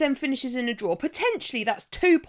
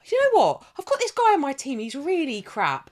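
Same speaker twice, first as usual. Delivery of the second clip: lightly voiced daft manager, louder; mock manager; 4 semitones higher, 4 dB louder than usual. Fan mocks referees as a clueless manager in louder mock voice. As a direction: play a clueless boss, a bit pompous. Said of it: "That's like me going".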